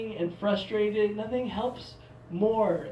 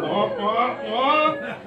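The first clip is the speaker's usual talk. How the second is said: put-on wah wah wah, rising louder; mock wah-wah noise; 2 semitones higher, 5 dB louder, much slower than usual. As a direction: honk out three comic wahs. Imitated noise mocking his own boast.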